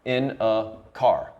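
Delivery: "car" weighted after light "in a", slowly; slow anapest landing on "car"; stress on CAR. Shown as a demonstration. Teacher demonstrates an anapest, slowly stressing CAR.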